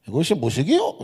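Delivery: Hamgyong accent, tune climbing at the end; Hamgyong dialect. Shown as a demonstration. Preacher puts the verse into Hamgyong speech for the congregation, Hamgyong accent. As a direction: ask it like someone from Hamgyong. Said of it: "함경-, 함경도 말로".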